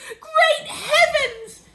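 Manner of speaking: drawn-out shocked wail of an excitable man; excited cry. A narrator's reading. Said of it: "he cried".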